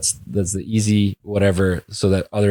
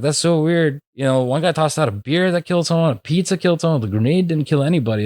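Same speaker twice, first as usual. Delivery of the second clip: lightly voiced puzzled man, pitched up; higher-pitched, lightly acted puzzlement; puzzled joke character; 6 semitones higher than usual. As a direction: play a mildly baffled guy, higher than usual. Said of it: "the Indian guy's like".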